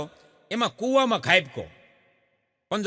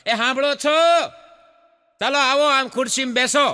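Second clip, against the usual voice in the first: wife calling husband; 4 semitones higher, 4 dB louder than usual. Acted. Wife calls husband to chair.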